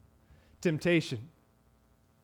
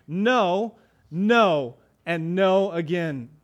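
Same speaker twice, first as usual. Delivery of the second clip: firm refusal; much slower than usual. Pretend. Joseph firmly refusing.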